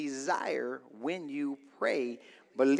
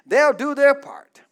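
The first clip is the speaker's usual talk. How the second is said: "They'll do their part" louder, hitting "their"; louder emphatic repeat; 9 semitones higher, 13 dB louder than usual. Shown as a demonstration. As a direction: say it again, louder and firmer. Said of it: "Let me say it again".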